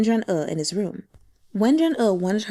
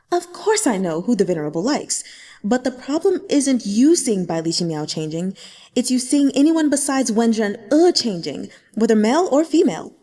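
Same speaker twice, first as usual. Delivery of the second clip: rising from clenched calm to a louder, exasperated push; through gritted teeth; 2 semitones higher, 4 dB louder than usual. Acted. Xu Yanyan losing patience with the sect leader, gritted teeth. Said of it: "Through gritted teeth".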